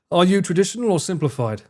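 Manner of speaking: laughing through are you traditional or simplified; laughing repeat. Acted. Streamer repeating the question while laughing. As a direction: giggle the question back. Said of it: "why does it sound like that could be the start of an insult".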